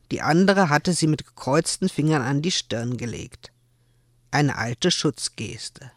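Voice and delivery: lebhaft vorgelesene Erzählung, die Figuren gespielt; erzählt die Szene wie beim Vorlesen; Romanlesung. Acted. Autorin liest aus ihrem Roman. (Autorin liest den Zuhörern ihr Buch vor)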